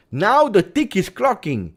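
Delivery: Now the tick is clocking, driven up loud and slow; emphatic repeat. Shown as a demonstration. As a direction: hammer the deadline home.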